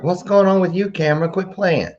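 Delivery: high, teasing mock scold of the camera; high playful mock scold at a gadget. Real, not acted. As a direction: tease the camera like a naughty pet.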